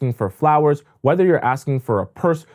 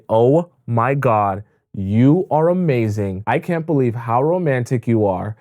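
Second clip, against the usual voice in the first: put-on overjoyed girlfriend act; 6 semitones higher than usual. Shown as a demonstration. Coach demoing how to thank your man for roses, gushing high and teary. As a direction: ham up the thrilled girlfriend getting roses. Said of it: "Sell it".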